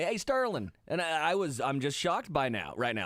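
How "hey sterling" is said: imitated Louisville relatives. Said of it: "when I go to Louisville every year".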